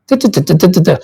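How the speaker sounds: da da syllables, jaw dropped to show the bottom teeth; bottom-teeth talker. Shown as a demonstration. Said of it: "you see more of their bottom".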